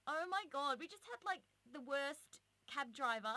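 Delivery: high, loud mock-dramatic exclamation; drunken girl outburst. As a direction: draw it out high like a tipsy girl complaining. Retelling drunk girls' outburst.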